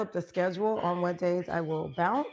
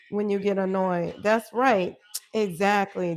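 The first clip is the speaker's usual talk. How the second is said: loud agreement; 6 dB louder than usual. Real, not acted. Excited agreement with host.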